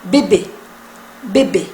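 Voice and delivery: bebé with two identical closed é sounds; short, low French bebé, two matching é's; both E's alike. Shown as a demonstration. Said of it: "las dos E se pronuncian igual".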